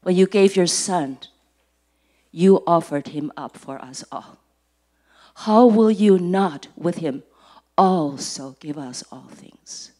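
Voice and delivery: measured prayer with falling phrases. Real, not acted. Preacher thanking God before the message, earnest prayer. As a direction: pray with firm emphasis, letting each phrase fall away.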